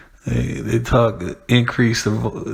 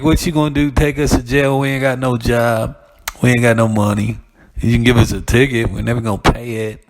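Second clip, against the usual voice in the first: defiant crowd; 4 dB louder than usual. Retold or imitated. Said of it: "Hey, like".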